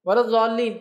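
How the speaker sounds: الضالین said with the Arabic ض sound; Arabic dad sound. Shown as a demonstration. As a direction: give الضالین its ض letter. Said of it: "تینوں کی آواز ایک جیسی نکلتی ہے".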